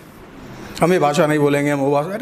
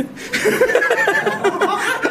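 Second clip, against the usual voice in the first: high squeaky laugh; 12 semitones higher than usual. Real, not acted. Laughing at own joke.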